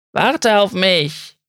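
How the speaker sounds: langsam gedehnter Ruf einer älteren Dame; leicht angedeutete ältere Frau, langsam rufend; ältere Amerikanerin ruft. A narrator's reading. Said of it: "rief eine ältere Frau". (ältere Amerikanerin ruft ihrem Mann langsam nach)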